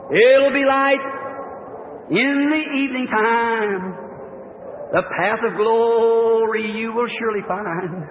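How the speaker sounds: slow, drawn-out hymn lines intoned; recited hymn. Acted. Preacher recites the evening light hymn, slow intoning. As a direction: intone the hymn words to the congregation.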